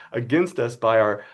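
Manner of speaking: whiny voice. Pretend. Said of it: "read it in more of a whiny voice".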